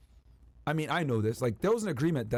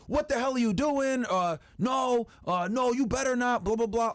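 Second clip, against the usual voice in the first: hammed-up imitation of her bait lines; mock fishing reaction; 8 semitones higher, slower than usual. Lawyer mocking her script to the podcast hosts, hammed-up higher plea. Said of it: "fishing for a response".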